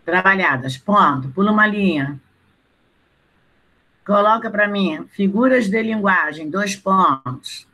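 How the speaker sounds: slow, spaced-out dictation; dictating. Acted. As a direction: dictate each phrase so students can write. Teacher dictating to class.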